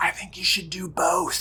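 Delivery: hushed stage whisper to the side. Signing off a vlog to the viewers, whispering.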